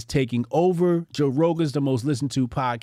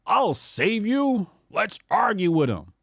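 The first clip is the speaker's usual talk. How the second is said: high, slow mock hero; mock rescuer; 4 semitones higher than usual. Mocking the right rescuing careers, slow mock hero. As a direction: drag out the savior line. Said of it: "and here come the right".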